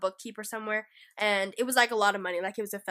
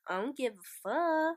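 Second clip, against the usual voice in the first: slow, softer mock nonchalance; cool indifference; 3 semitones higher, 5 dB quieter than usual. Imagining being caught under a false name, mock nonchalant. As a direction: shrug it off slowly, imitating someone unbothered. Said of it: "super cool, calm, collected".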